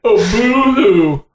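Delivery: sneering slow boo-hoo; mocking boo-hoo. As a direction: drag out a sarcastic boo-hoo. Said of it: "That's what she was like".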